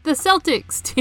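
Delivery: "Celtics" with an S sound at the start; soft C in Celtics. Shown as a demonstration. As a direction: say "Celtics" as SEL-tiks, Boston style. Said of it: "it's called Celtic".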